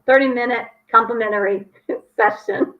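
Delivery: clean retake with a laugh; practicing a speech. Real, not acted. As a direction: redo the line, laughing at yourself midway. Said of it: "let me try that again".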